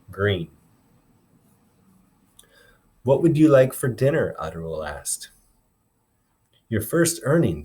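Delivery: expressive read-aloud, voicing each character lightly; storytelling voice for a classroom; story read aloud to class. A narrator's reading. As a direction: read the chapter to the kids, bringing the dialogue to life. Teacher reads novel aloud to class.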